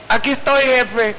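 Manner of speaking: a light nod to the comic Mexican everyman; Cantinflas impression. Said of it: "como Cantinflas".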